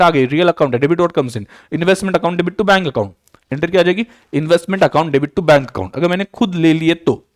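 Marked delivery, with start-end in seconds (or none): 1.7-3.1 very slow, each word spaced for note-taking; slow, deliberate dictation of an entry. Shown as a demonstration. Dictating journal entry to students. 4.3-6.0 very slow, each word spaced for note-taking; slow, deliberate dictation of an entry. Shown as a demonstration. Repeats entry for students to write.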